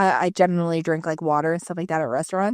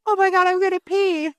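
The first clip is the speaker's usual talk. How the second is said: sister-in-law squealing she'll wet herself; laughing yell; 11 semitones higher than usual. Retold or imitated. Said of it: "the number one thing she yells is".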